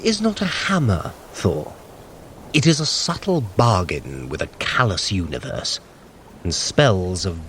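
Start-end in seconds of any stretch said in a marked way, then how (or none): none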